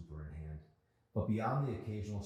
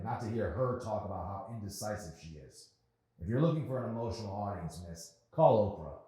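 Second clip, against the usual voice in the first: angry customer; 5 semitones higher, 6 dB louder than usual. Acted. Rude customer complaining.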